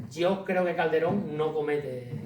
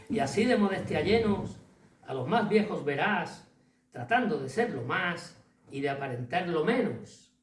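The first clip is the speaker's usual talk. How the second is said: verse recitation; 2 semitones higher than usual. Acted. Lecturer reciting Calderón's verses to the hall, declaimed. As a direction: recite it as poetry, stressing the rhymes.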